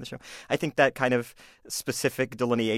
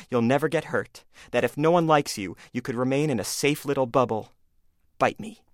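smug bully voice. Acted. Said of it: "this is called A Bully Does His Research".

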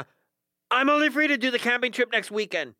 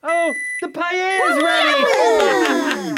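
slow, loud announcing call; 7 semitones higher, 6 dB louder, much slower than usual. Acted. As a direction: call everyone to the table. Announcing food to guests.

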